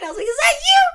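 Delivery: high, laughing question; laughing mock question; laughing through it. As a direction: crack up while asking it. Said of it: "He goes".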